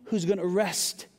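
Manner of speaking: loud, insistent, pressing on the I; Jesus insisting he is the one; emphatic Jesus voice. Acted. Preacher voicing Jesus, loud and insistent. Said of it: "Jesus is saying".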